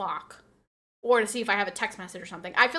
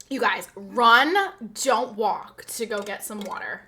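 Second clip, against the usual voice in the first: lightly voiced Instagram influencer, slow and breathy-sold; a hint of a slow, selling influencer; influencer impersonation; 4 dB louder, slower than usual. Streamer mimics an Instagram influencer pushing water, slow hype. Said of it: "my best Instagram influencer impersonation".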